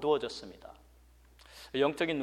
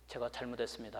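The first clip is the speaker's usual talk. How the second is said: contrite apology; 3 semitones lower, 10 dB quieter, faster than usual. Retold or imitated. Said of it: "그때서야 발람이 깨닫고".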